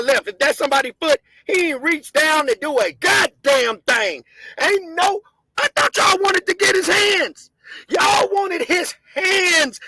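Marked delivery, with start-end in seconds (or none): 1.5-9.8 tearful angry shouting. Real, not acted. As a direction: voice cracking while yelling, very slow at the end. Tearful angry rant at footage.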